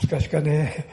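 loud Kumamoto-dialect exclamation. Acted. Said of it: "熊本弁で言えば".

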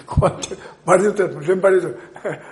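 emphatic proclamation. Retold or imitated. Quoting Jesus's words, emphatic.

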